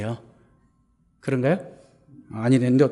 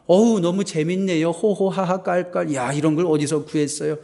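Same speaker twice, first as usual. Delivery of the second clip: polite fake laughter. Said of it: "예의상".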